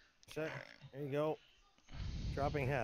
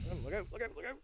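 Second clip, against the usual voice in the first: shouting orders over battle; 8 semitones higher, faster than usual. Real, not acted. Warning teammate mid-fight.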